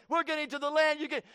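fast, crying shout of straining rowers; sailors shouting. Acted. Preacher acting out the sailors rowing to shore, shouted. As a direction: yell it like men rowing for their lives.

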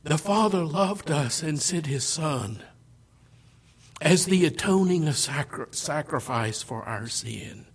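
ordinary talk

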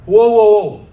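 loud halting whoa whoa. Retold or imitated. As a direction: rein them in, loud. Pulling someone back, loud.

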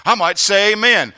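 high, loud voicing of the worshipper; shouted amen. Preacher voicing a worshipper who might shout amen. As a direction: belt it like a revival crowd.

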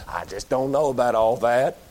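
low, grudging mumble of a doubter; lightly mocking a hard-headed listener. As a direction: mutter it like a stubborn skeptic. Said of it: "repeated mock of listener".

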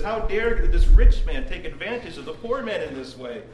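half-acted fury at an injustice; retold outrage. Preacher voicing King David's outrage at the rich man. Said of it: "David is becoming enraged by it".

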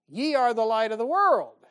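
loud, fervent preacher proclamation; fervent preaching shout. Real, not acted. Preacher booms the scripture line.

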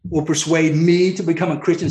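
the king brushing Paul off, sarcastic. Retold or imitated. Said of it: "very sarcastic response".

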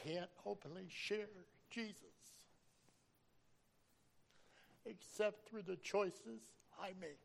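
fighting back tears, pitch climbing; real choked-up emotion; getting emotional. Real, not acted. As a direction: voice rising high and breaking with emotion. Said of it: "I didn't want to get emotional".

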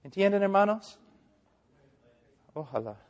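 Spanish with an American accent; non-native Spanish, American English accent. Real, not acted. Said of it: "Mi español no es muy bueno".

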